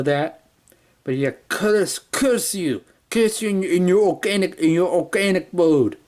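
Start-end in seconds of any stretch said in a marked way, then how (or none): 1.5-6.0 higher, lightly put-on German accent; failed German accent. Reviewer mocking robot cursing organics, mild German accent. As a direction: spit curses in a weak German accent. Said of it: "my failed attempt at a German accent".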